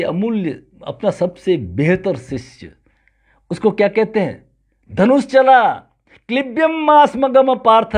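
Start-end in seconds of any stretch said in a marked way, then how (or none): 4.9-8.0 raised, higher voice, imitating a command; retold rousing command. Krishna exhorts Arjun to fight, retold as a rousing command. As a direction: urge a warrior to take up arms.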